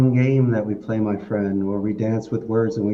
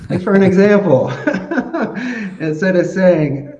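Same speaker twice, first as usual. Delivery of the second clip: laughing while talking; 9 semitones higher, 7 dB louder than usual. Real, not acted. Laughs at own story.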